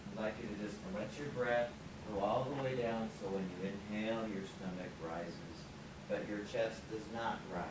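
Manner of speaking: soft, low, unhurried breathing guidance; guided relaxation. Acted. Leads a relaxation breathing exercise.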